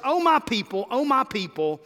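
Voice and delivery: God pleading tenderly, dying away to a hush. Acted. Preacher voices God pleading with his people, tender and fading. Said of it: "patient enough to plead with us".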